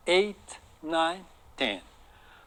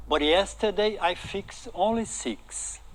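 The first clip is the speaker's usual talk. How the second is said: slow careful reading; 3 semitones higher, much slower than usual. Shown as a demonstration. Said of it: "o mecânico vai responder".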